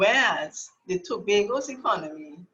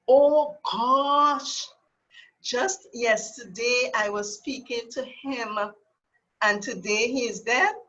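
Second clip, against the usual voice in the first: a hint of shocked disbelief; lightly gasping out the bad news; shocked exclamation; 2 semitones higher than usual. Telling the audience about a friend's sudden death, mildly shocked. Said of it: "that too long".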